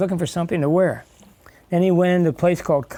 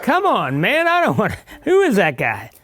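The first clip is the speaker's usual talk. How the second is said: put-on complaining kids; 4 semitones higher than usual. Kids rejecting Santa.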